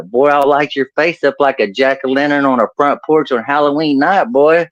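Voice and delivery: mock cranky redneck grandpa; redneck Okie grandpa. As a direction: bluster like an Okie old-timer. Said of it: "the more redneck and oaky I'm gonna sound".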